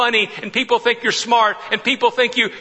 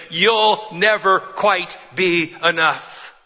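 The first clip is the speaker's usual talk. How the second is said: haunting echo; much slower than usual. Retold or imitated. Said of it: "the ghost echoes in her head".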